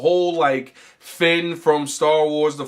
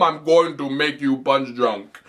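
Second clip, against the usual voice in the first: imitating Doomfist; slower than usual. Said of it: "African warlord stereotype".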